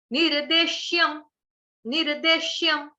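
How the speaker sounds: निर्देश्यम with a clear short यम at the end; careful recitation. Shown as a demonstration. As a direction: sound each syllable of निर्देश्यम. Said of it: "यम का उच्चारण".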